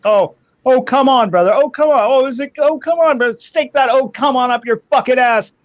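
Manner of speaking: high, loud mock tirade imitating a furious friend; mocking angry rant. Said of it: "He's like".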